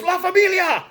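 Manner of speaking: over-the-top gangster war cry; mock battle cry. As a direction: bellow it like a movie thug swinging a sink. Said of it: "picks up the sink and goes".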